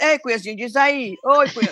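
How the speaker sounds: put-on friendly, fond call to a girlfriend; affectionate greeting. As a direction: greet a close friend playfully. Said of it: "só as pessoas que eu gosto". (chamado carinhoso entre amigas)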